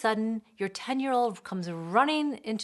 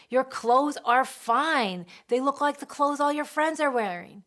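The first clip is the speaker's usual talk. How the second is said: dismissive; 5 semitones higher, 6 dB louder than usual. Retold or imitated. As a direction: reassure the feelings away. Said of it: "So we deny the feeling".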